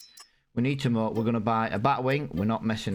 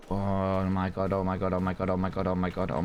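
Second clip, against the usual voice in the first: dismayed groaning; 2 semitones lower than usual. Real, not acted. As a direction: moan it out like you just lost money. Baler costs more than expected.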